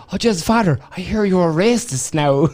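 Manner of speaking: quoting Father Ted. Retold or imitated. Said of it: "someone came up to him and goes".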